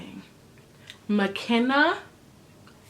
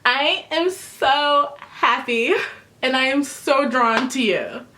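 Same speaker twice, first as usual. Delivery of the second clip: gushing; 4 semitones higher, slower than usual. Retold or imitated. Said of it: "then she's like".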